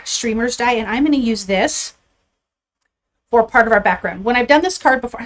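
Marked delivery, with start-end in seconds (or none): 3.3-5.2 breathless, catching air between words; out of breath. Real, not acted. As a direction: talk while slightly winded. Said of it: "I'm so out of breath right now".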